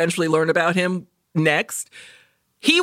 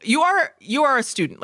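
higher, exasperated correction; mock scolding; 8 semitones higher than usual. Teller scolding the researcher in a higher mock-exasperated voice. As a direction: talk her down like a friend.

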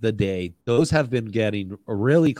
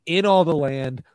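ad read; 3 semitones higher than usual. Acted.

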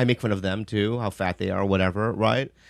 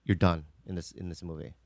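retold warning; 4 semitones lower, 9 dB quieter than usual. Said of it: "He goes".

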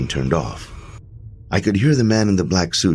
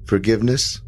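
pathetic; 6 semitones higher than usual. A narrator's reading. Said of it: "I offered pathetically".

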